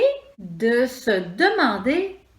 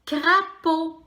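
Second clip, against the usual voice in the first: high; 6 semitones higher than usual. Shown as a demonstration. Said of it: "On compte les syllabes".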